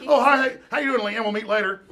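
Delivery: imitating a chirpy hello; acted greeting. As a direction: greet a passing coworker, playing it up. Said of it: "you're talking to somebody".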